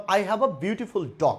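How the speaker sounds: each word stretched out very slowly; slow model sentence. Shown as a demonstration. Teacher dictating the example sentence to the class, very slowly. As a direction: dictate it so students catch every word. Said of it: "ভালো করে খেয়াল করবেন".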